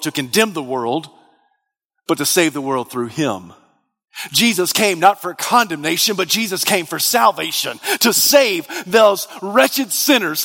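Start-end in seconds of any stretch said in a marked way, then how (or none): 4.3-10.5 emphatic pulpit delivery, pitched up as it builds; building sermon fervour; fervent preaching. Real, not acted. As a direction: preach it with urgent conviction. Preaches with force.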